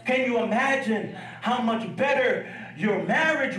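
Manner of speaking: building, shouted preacher's cadence; preacher urging the congregation to pray for what God says, shouting; preaching. Acted. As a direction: drive it home to the congregation. Preaching at full force.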